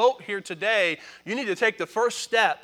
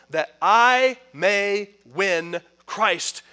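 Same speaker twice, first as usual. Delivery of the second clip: building, louder preaching of the passage; scripture reading; 3 dB louder than usual. Acted. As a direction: read it with rising fervour. Preacher reads long scripture passage.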